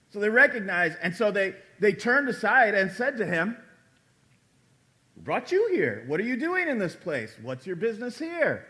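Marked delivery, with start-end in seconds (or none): 5.1-8.6 interrogation. Retold or imitated. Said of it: "sounds a little bit like an interrogation".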